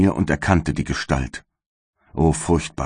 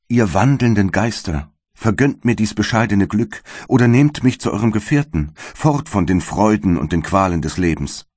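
exalted outcry; 4 semitones higher than usual. Acted. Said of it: "Ich rief aus".

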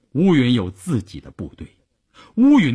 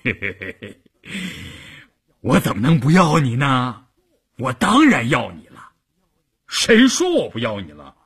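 chuckling. Acted. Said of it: "呵呵地笑了".

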